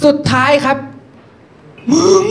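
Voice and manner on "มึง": ominous last tone. Acted. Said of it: "ถ้ามันออกสำเนียงเสียงสุดท้าย หนีให้ห่าง".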